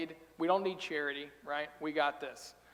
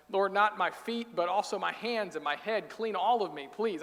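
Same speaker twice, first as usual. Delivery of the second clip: eager plea; 3 semitones higher, 4 dB louder than usual. Retold or imitated. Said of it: "He swings hard the other direction".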